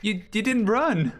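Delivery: high, slow, startled cry. Real, not acted. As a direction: blurt it out in shock. Ghost appears, startled.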